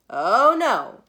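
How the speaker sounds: loud, startled "oh no" from a worried mom; big alarmed gasp of a mother. Acted. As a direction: blurt it out like a mom hearing bad news.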